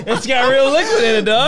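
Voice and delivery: high voice through laughter; laughing. Real, not acted. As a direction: talk while cracking up. Laughing at the mug.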